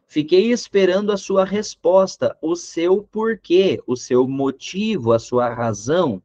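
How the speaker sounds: a touch of melodrama, slowing down and fading; dramatic text. Acted. Teacher reads a dramatic example sentence, mildly hammed-up. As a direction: read it like a lightly hammed-up sad letter. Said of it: "aí eu tive que fazer um texto dramático".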